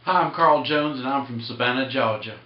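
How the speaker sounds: genteel Savannah Southern accent; Southern gentleman accent. Shown as a demonstration. Carver introducing himself as from Savannah, Southern gentleman accent. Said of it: "Southern gentleman type style".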